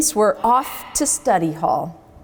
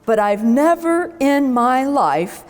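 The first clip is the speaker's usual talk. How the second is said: slow, chuckling principal voice; amused and drawn out; chortling principal; slower than usual. Acted. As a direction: principal chuckling at lazy class. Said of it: "say with a chortle".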